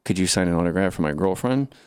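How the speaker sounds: low-pitched voice of an ex-con; ex-con autograph seeker. Acted. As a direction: pitch it down as a guy fresh from prison. Voicing ex-con asking for autograph.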